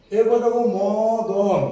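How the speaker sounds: মদন drawn out very slowly; slow sounding out. Shown as a demonstration. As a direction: spell মদন by ear slowly for the class. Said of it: "অ আসছে বলে".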